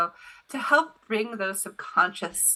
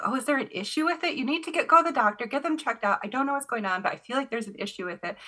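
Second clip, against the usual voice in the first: urgent worried warning; 5 semitones higher, much faster than usual. Retold or imitated. Urgent warning to kid, retold.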